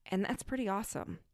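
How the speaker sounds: normal talking voice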